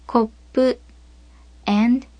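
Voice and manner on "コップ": コップ with a silent beat before "pu"; コップ with a held p; double consonant. Shown as a demonstration. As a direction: stop for a beat inside コップ, ko-(pause)-pu. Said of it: "as if there is a syllabic length of silence".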